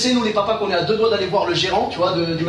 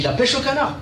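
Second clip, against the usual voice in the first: higher, doubting question; incredulous echo; 5 semitones higher than usual. Acted. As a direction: throw it back in mild disbelief. Père incrédule devant le jeu proposé. (répétition incrédule, plus aiguë)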